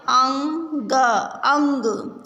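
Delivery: clear, careful teacher reading; reading words aloud to class. Shown as a demonstration. Teacher reads अंग aloud to her class, clearly. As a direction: say each word slowly for children to repeat. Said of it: "अब हम आगे अंग की मात्रा से बने हुए शब्दों को पढ़ेंगे".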